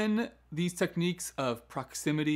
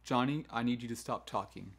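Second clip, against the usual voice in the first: firm, measured instruction, falling at the end; calm, no-question teacher command; authoritative command; 2 semitones lower, 3 dB quieter than usual. Shown as a demonstration. Teacher telling Johnny to stop talking, authoritative. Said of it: "needs to be a authoritative command".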